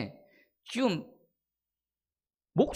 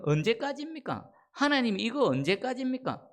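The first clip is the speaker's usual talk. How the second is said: higher-pitched lament to God; lamenting plea; 4 semitones higher than usual. Acted. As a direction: plead upward, asking how long. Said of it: "라고 탄식하고 있습니다".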